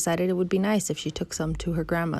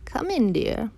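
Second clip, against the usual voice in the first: high, gliding sugary wolf; lightly sugar it, sliding from high; sweetest voice; 5 semitones higher, slower than usual. Acted. Wolf lures the girl inside, sweetly high. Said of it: "the wolf in his sweetest voice".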